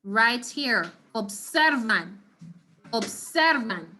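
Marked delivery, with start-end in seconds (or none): 1.1-3.9 observan said obSERvan, slowly; stress on ser. Shown as a demonstration. Teacher modelling the stressed syllable for the class. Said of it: "Where's the emphasis gonna be on this one".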